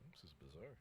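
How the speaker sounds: unvoiced whispered aside; whispering. Real, not acted. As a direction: whisper it to yourself. Aside during lottery.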